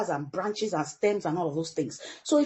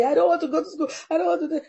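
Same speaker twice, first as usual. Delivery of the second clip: put-on higher, louder child's complaint; whiny child; 7 semitones higher, 4 dB louder, faster than usual. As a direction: whine like a tearful kid refusing school. Son crying before school.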